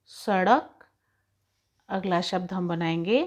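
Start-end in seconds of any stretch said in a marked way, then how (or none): 0.1-0.8 सड़क drawn out slowly, the ड़ flapped; slow, clear classroom model; slow teaching word. Shown as a demonstration. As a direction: spell out सड़क syllable by syllable. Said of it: "अब इनसे अगर हम शब्द बनाएंगे".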